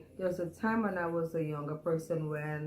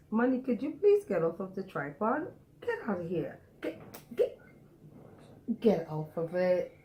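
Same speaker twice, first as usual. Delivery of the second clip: calling out; 3 semitones higher than usual. Real, not acted. Shooing pet off the tripod.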